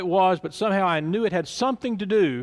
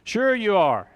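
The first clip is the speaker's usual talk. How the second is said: mocking scoff; 4 semitones higher than usual. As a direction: sneer at the claim. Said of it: "laughing and joking".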